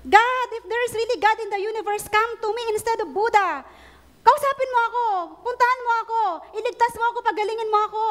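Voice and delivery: a mildly shouted plea for healing; retold shouted prayer. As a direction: call out desperately to God, begging to be healed. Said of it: "Sumigaw siya".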